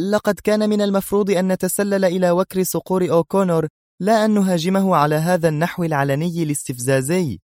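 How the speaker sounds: a touch of sharp reproach. Acted. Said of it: "فاستطردت هي في حدة". (بحدة خفيفة)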